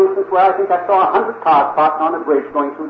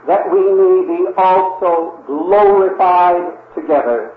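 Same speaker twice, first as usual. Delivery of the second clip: scripture reading; 3 semitones higher than usual. Acted. Preacher reads Romans to the congregation, solemn scripture reading. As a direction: intone the verses like a preacher reading to the flock.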